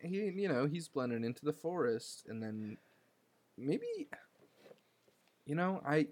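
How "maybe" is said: a quick breathy whisper. Real, not acted. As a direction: drop to a whisper on it. Whispered aside.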